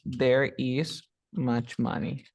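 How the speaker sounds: very slow, careful teacher demo; slow model sentence. Shown as a demonstration. Teacher offers the alternative sentence to compare, slow and clear. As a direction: lay each word out slowly. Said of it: "O dirás".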